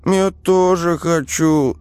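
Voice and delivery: put-on a kid begging to join in; keen small brother, slowed; excited child. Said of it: "возбуждённо рассматривая оружие".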